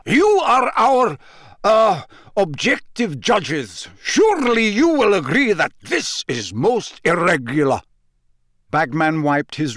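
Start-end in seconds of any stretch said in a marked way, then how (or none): 0.0-7.8 oily, high, ingratiating plea; butter up the judges; unctuous. A narrator's reading. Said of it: "his voice unctuous once more".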